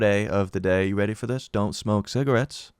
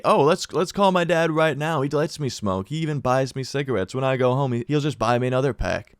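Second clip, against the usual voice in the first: cocky confidence; 3 semitones higher than usual. Retold or imitated. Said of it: "I just said it with such confidence".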